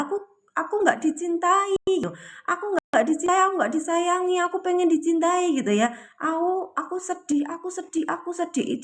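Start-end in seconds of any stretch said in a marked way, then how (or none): 0.0-5.5 put-on high, pleading inner child; voicing hurt inner self. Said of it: "dia akan teriak ya". 6.2-8.8 high and softer, a touch of whimper; mock sad lament, higher and hushed; voicing sad inner self. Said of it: "Dia itu teriak".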